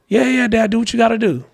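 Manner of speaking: put-on breezy kid brushing it off; imitating his son. Son answering his dad.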